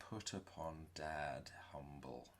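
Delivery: whispered asides under the breath; sly whispered note to self; stage whisper. Acted. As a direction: hiss reminders to yourself. Whispered self-reminders to himself.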